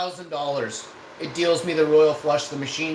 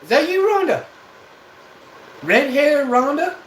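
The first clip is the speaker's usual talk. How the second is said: calling out; 11 semitones higher, 7 dB louder than usual. Acted. Calling out to a chat user.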